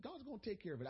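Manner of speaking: casual, almost throwaway "God's gonna take care of it.". Retold or imitated. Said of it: "I said it real casually".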